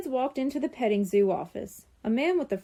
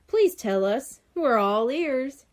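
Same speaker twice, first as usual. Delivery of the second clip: with a grin; 2 semitones higher, 3 dB louder, slower than usual. A narrator's reading. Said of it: "he said with a grin".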